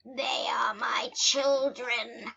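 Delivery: slow, savoring villain cat; gloating cat villain. Pretend. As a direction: relish every word like a hungry cat. Plays the gloating mouse-eating cat.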